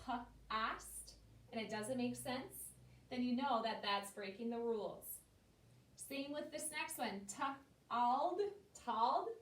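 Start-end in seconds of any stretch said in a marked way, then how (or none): 0.1-1.1 p-ost with p split off and a short ah vowel; sounded out. Shown as a demonstration. Teacher sounding out a rule breaker, segmented. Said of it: "if you were to sound this out". 7.3-9.3 t-ald then tald with a short ah vowel; wrong short vowel. Shown as a demonstration. Teacher showing the wrong reading to kids, short ah. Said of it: "that's not a word".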